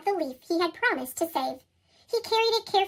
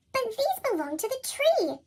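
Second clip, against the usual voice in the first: Fletcher protesting; 6 semitones higher than usual. Acted. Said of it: "said Fletcher".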